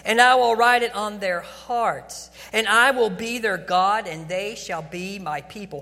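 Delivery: loud, stretched proclamation of a promise; emphatic scripture reading. Acted. Preacher reading God's covenant to the congregation, emphatic proclamation. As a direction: proclaim the verse with weight on key words.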